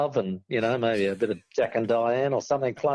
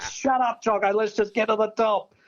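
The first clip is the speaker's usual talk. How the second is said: snapping at a mate; 9 semitones higher than usual. Retold or imitated. Snapping at chatty mate, scared.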